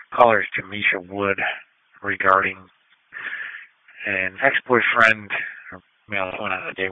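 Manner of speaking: dispatcher over a crackly radio; police radio. Real, not acted. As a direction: read it out over the scanner. Dispatcher broadcasting over scanner.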